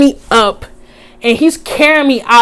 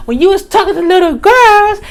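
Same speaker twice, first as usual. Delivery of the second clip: raised accusation; 9 semitones higher, faster than usual. Retold or imitated. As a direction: say it again, pushing harder. Repeating the accusation, louder.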